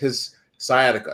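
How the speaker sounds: normal talking voice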